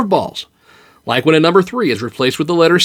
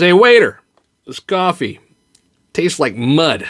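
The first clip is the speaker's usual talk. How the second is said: calling out; 2 semitones higher than usual. Acted. Diner calling waiter again.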